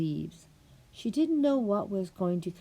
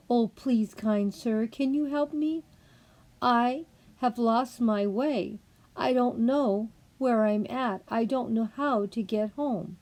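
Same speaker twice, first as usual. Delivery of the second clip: put-on pleading girl; 5 semitones higher, 3 dB louder than usual.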